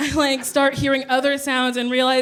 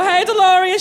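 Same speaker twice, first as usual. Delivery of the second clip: louder, higher sassy street call; calling out to a lady; 6 semitones higher, 5 dB louder than usual. Retold or imitated. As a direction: holler her name from across the hood. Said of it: "you go".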